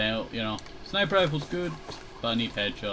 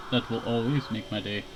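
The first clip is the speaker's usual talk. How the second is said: voice cracking; 2 semitones lower, 3 dB quieter than usual. Real, not acted. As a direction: voice breaks mid-sentence. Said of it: "Oh, my voice broke there".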